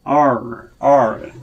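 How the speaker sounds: R with the tongue curled back; R sound demo. Shown as a demonstration. Teacher demonstrating the R sound to students, slow and clear. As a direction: curl the tongue in for R. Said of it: "R은 혀가 이렇게 안으로 말려 들어갑니다".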